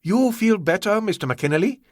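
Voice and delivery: lightly voiced polite villain; smooth villain voice. A narrator's reading. Ah Wong voiced by narrator.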